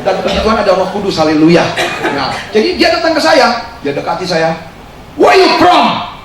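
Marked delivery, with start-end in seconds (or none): 5.1-6.1 high, loud mock of the officer; rough it up like the prison chief; Balinese officer's broken English. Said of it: "Lu salah banter".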